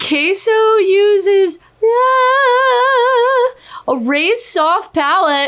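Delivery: drawn-out, very slow, high-pitched screaming. Starting a vocal analysis with a mic close by: screaming. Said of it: "I don't know why I'm screaming that".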